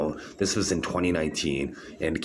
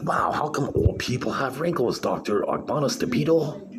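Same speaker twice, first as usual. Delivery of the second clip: mocking; 8 semitones higher than usual. Mocking the doctor's claim.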